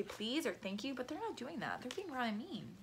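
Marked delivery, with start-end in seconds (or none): 0.0-0.9 polite. Shown as a demonstration. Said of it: "Or you could say".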